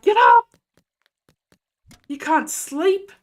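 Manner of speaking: high, loud shout, then slow and firm; harsh wake-up yell. Retold or imitated. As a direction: yell a child awake, then drag it out. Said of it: "turn the lights on and off".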